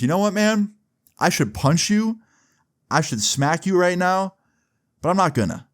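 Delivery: retold threat, pitched well up; held-back threat. Jimmy confronts the one who framed him, held-back threat. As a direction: warn him high and measured, then relent.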